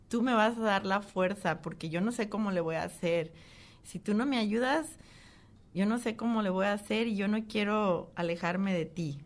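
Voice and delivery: earnest appeal, pitch lifted; recalling a tearful, insistent prayer; retold tearful plea. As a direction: beg God for strength. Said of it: "y llorando y le dije".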